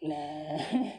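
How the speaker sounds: breathy hushed nah; whispered no. Retold or imitated. Pushing away a thought of mom's death, whispered. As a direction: brush the idea off under your breath.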